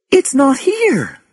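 very high, slow cry of alarm; panicked cry, stretched out; shocked wail, high in pitch; scream. A narrator's reading. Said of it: "she screamed".

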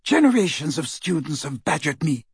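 mildly scornful complaint; disdainful. Acted. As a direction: brush off yet another pest. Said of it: "she said disdainfully".

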